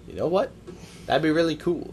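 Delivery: high-pitched mock eager fan; fan having an idea. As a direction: pitch it up, imitating a naive idea. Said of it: "some guys who watch it and say".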